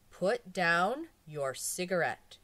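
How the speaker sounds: calm authority of a hypnotist; strong but gentle. Acted. Psychiatrist to hypnotized woman, slow firm gentle command. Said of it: "in a strong but gentle voice".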